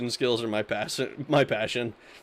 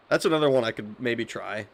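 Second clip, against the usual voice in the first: normal talking voice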